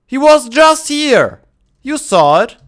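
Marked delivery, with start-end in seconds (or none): 0.0-1.4 slow, loud and high disbelief; surprised. Real, not acted. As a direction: exclaim in disbelief. Lost the mammoth.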